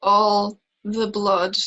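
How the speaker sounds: "All the blood" said slowly, word by word; slow lament. Acted. Turning the talk to periods, slow lament. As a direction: draw out "All the blood" at normal volume.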